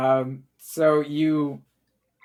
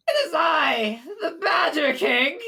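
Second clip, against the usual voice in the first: booming king voice; 10 semitones higher, slower than usual. Acted. A mad king proclaims himself to the visitors, high and crying out. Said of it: "you hear a voice go".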